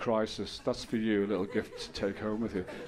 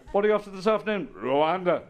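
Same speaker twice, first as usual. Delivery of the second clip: mock casual chat; 7 semitones higher, 6 dB louder than usual. Mock casual exchange acted out.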